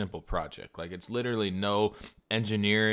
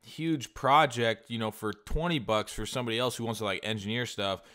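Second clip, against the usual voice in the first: higher, louder exasperated outburst; indignant rant; 4 semitones higher, 3 dB louder than usual. Retold or imitated. Buyer ranting at Fiverr seller over price, mock outrage. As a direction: blast him for the price hike.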